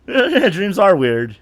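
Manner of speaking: slow amused repeat; laughing, drawn out. Real, not acted. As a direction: stretch it out through a laugh.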